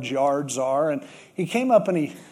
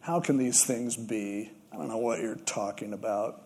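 puzzled Nicodemus; 7 semitones lower, 7 dB quieter than usual. Retold or imitated. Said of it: "Nicodemus said".

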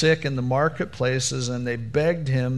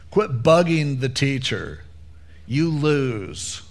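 mocking, loud put-down; a mock taunt to the grieving father; callous mourners; 3 dB louder, slower than usual. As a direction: jeer like a heartless crowd. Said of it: "these people are like".

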